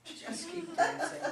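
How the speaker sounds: says it through a laugh. Acted. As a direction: laugh while telling them to dance. Laughing line in scene reading.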